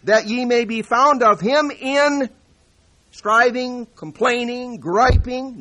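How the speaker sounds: preached loud and high, "striving, complaining, griping" swapped in for a joke; mock misquote of the verse, still thundering; wrong words in a full-force preacher voice; deliberate misreading. Shown as a demonstration. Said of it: "No, peace".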